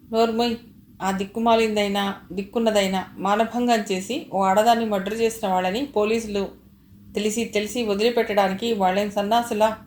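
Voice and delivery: grit your teeth and lash out; through gritted teeth. Acted. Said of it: "పళ్ళు కొరుకుతూ అని".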